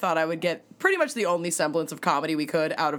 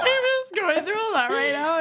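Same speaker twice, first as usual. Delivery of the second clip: mimicking; 10 semitones higher than usual. Friend echoes it laughing.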